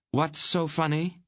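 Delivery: high, sharp demand; angry aunt. Acted. Aunt snapping at Mister Wolf, angry. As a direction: snap at the chuckling old man.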